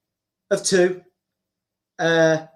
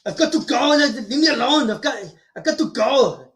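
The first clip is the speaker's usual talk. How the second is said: Arnold impression; 2 semitones higher than usual. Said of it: "with Arnold Schwarzenegger".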